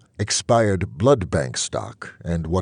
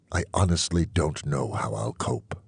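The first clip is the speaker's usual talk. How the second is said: whispered, hopeless admission; quiet whispered despair; 4 semitones lower, 4 dB quieter than usual. Acted. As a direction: breathe it out as if you can't bear to say it aloud. Despairing end of vampire's confession.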